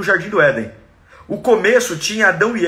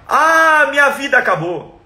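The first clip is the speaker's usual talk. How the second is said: mock despairing rant; 6 semitones higher than usual. Mocking a self-pitying believer, hammed-up wail. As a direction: overplay the self-pity, wailing. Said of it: "Ele não grita".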